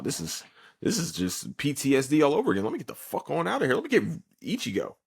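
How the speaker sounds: high, rushed panicky rant; mock panic. Kon sees a Soul Reaper and wants out, mock panic. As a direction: play a hammed-up panicked escape.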